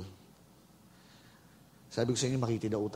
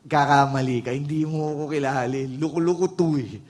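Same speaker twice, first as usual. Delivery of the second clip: protesting congregant; 6 dB louder than usual. Pretend. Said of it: "Alam ko na iniisip mo eh".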